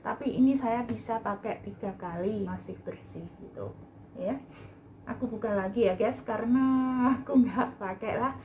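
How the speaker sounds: muffled behind mask; speaking with covered mouth; through a face mask. Real, not acted. Seen 2: White face mask covers her mouth throughout; reference frames unmasked.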